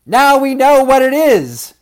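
high, loud, urgent outburst; frantic high-pitched shout; excited cry. A narrator's reading. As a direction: cry out a sudden realisation. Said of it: "they cried".

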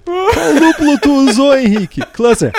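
high squeaky words through laughter; can barely get it out for laughing. Real, not acted. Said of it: "E temos o primeiro ataque de riso ao vivo".

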